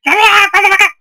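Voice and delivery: high, loud yell; high angry shout. Real, not acted. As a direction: scream it high at the enemy. Chasing enemy, higher.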